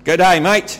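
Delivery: put-on light joking Australian accent; a quick Aussie greeting. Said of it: "อาจารย์กำลังโจ๊กสำเนียงออสเตรเลีย".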